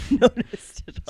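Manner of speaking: loud, slow sarcastic laugh-through; deadpan denial breaking into laughter. Real, not acted. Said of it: "Sarcasm coming through the radio waves".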